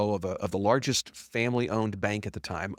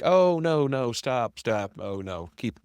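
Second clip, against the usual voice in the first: mock modesty; much slower than usual. Client flattered by his counselor, mock modesty. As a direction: play coy at the flattery, fading as it goes.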